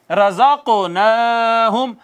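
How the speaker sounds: slow, drawn-out chanted recitation; Quran recitation. Shown as a demonstration. Teacher reciting the verse for students, slow chanted recitation. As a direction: recite each word slowly, stretching the vowels. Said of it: "teacher recites for students".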